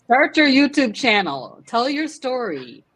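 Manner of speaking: imitating Carrie's urging. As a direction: press her to start the channel, slowly. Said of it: "Carrie was like".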